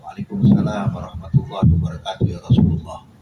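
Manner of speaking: whispered, held-back answer to the greeting; hushed reply. Retold or imitated. Household answering the Prophet's greeting in a whisper. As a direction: answer under your breath so he can't hear. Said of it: "cuma suaranya dipelanin".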